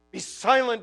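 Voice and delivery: a firm, full-voiced be silent; firm command. Shown as a demonstration. The gospel ordering despair to stop, firm and full. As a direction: command it with authority.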